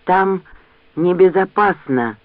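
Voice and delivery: hoarse wheeze of a wounded man; rasping. Acted. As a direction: rasp it out weakly. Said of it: "прохрипел Джек".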